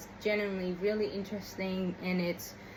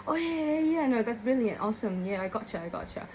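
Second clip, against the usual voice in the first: gushing usual reply; 2 semitones higher than usual. Retold or imitated. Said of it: "That's how I usually reply".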